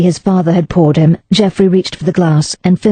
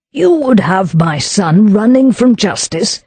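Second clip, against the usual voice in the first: harshly; 4 semitones higher than usual. Acted. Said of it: "said Lord Wentwater harshly".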